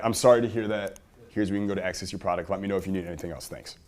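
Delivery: quick, perfunctory email read-off; basic support reply. Acted. Support rep sending a routine link, perfunctory. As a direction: rattle it off, dropping away at the end. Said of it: "Very basic response".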